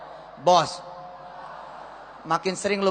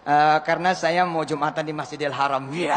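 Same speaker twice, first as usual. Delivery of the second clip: mock pompous announcer; 6 semitones lower than usual.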